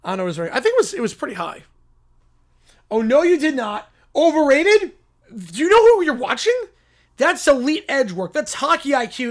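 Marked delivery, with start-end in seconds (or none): 2.9-9.3 raised, affronted defence; indignant yelling. Acted. Defending the player to doubters, indignant yelling. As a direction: push it out in offended outrage. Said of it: "why are you yelling?".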